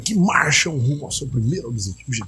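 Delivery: a touch of imitated enthusiasm; excited. Commentator imitating the narrator's excitement about the advance, mildly excited. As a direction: echo his eager narration with mild excitement. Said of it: "Aí tem empolgação na voz dele".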